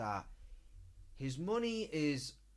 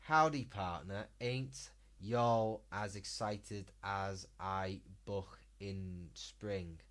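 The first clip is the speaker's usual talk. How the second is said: put-on 1 American accent; 5 semitones lower, slower than usual. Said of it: "Can you please do an American accent?".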